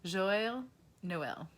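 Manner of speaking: Joyeux Noël said in French; French greeting. Shown as a demonstration. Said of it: "and they say".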